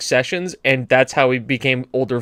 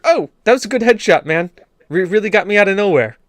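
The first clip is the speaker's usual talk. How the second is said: overly polite gamer; 5 semitones higher, faster than usual. Pretend.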